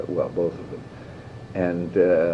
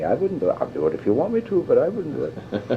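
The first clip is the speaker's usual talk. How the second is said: imitating Billy; 6 semitones higher than usual. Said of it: "Billy will suddenly say".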